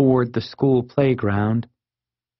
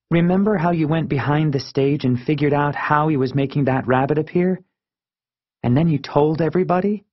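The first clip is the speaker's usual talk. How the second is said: lightly voiced friend, pitched up; Marisol; 4 semitones higher, faster than usual. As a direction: prod a friend's memory, slightly higher.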